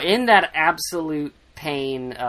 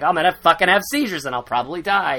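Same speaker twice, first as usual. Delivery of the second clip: mock dramatics; 4 semitones higher, 5 dB louder, faster than usual. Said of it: "he starts making up shit".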